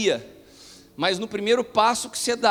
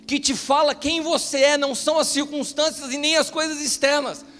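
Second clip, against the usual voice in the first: high, loud, driving sermon voice; fervent preaching; 7 semitones higher, 4 dB louder than usual. Acted. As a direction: preach it with rising fire to the congregation. Preacher builds to full force.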